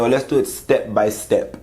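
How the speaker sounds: a put-on, exaggerated African accent on the husband's words; a lightly voiced African accent, half-joking; mock African accent. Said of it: "this horrible African accent".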